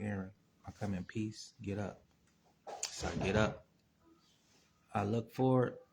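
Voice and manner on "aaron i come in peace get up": hushed, very soft, gentle voice. Retelling what a huge being in the universe said to him, real soft voice. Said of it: "in the real soft voice".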